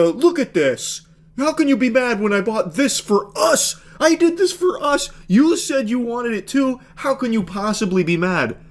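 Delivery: mock him pleading to be praised; squeaky mock-innocent gamer boyfriend. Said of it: "I like how he puts, like, a".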